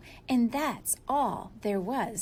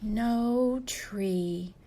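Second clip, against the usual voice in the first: sad sigh; 3 semitones lower than usual. Acted. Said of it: "sighed a sad Moose".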